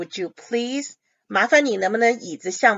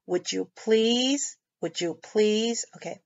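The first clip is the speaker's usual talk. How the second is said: soft, slow, courteous would you please; quiet courteous asking; polite tone; 5 dB quieter, much slower than usual. Shown as a demonstration. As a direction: say it like a polite request. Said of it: "用很客气的口气".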